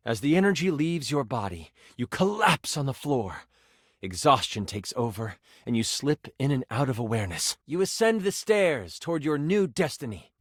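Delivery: measured storytelling, sinking as exhaustion takes over; game master's scene narration. Acted. Game master tells a player they collapse, solemn narration.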